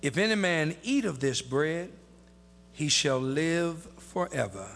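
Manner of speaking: measured Bible reading in spaced phrases; scripture reading. Acted. Preacher reading the verse to his congregation, measured and deliberate. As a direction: read the verse solemnly, pausing after each phrase.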